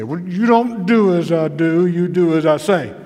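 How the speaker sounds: loud, scolding granddaddy voice; mock-stern elder's rebuke; imitating granddaddy. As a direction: lay down the law like a granddad. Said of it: "something I heard my granddaddy say".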